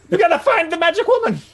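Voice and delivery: high, strained call across a distance; acted yell. Character calling to the departing boat, high-pitched mock yell. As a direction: call it over like a distant hail. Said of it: "And then he yells".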